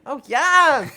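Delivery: loud hammed-up "oh yes"; mock moan of pleasure. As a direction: belt it out like a fake orgasm. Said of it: "and I'll be like".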